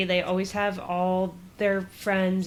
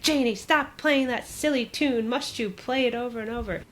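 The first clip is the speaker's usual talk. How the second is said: higher-pitched retold scolding; mock angry dad; 5 semitones higher than usual. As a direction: imitate a father losing patience with his child. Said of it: "is very angry".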